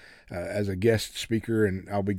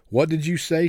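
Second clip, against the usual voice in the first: higher, sharp demand; a higher, shocked demand; 6 semitones higher than usual. A narrator's reading. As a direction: demand it, rising pitch. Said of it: "she demanded".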